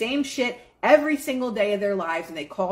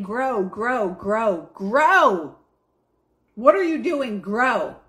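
the sun calling out; 5 dB louder, much slower than usual. Acted. Sun urging the bud to grow.

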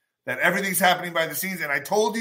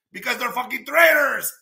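angry; 7 semitones higher than usual. Real, not acted. Shouted accusation.

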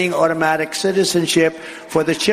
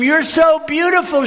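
high, lightly voiced adoring woman; a hint of a doting woman; mock adoring woman; 12 semitones higher than usual. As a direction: gush it as the tender woman. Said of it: "she cried".

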